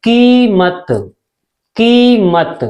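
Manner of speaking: कीमत with a drawn-out long ई; long ee in keemat. Shown as a demonstration. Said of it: "लंबी सांस आ रही".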